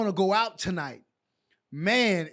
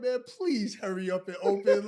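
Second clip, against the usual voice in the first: laughing inner plea. Retold or imitated. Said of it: "just looking at the numbers like".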